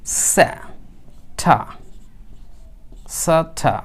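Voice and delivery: "স্যা", "ঠা" broken apart with long pauses; syllable-by-syllable pronunciation. Shown as a demonstration. Teacher showing learners how Saturday begins, syllable by syllable. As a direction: say "সা, ঠা" as two separate careful syllables. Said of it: "এইখানে আমাদেরকে খেয়াল রাখতে হবে".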